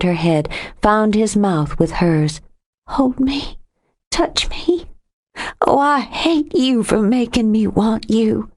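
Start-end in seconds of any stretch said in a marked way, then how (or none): 2.9-8.5 pleading on a sob. A narrator's reading. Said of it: "On a sob".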